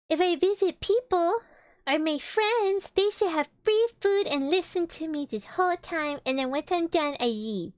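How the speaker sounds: lightly put-on Pooh, starting high and loud then easing; mock Pooh. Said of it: "I like how Pooh was like".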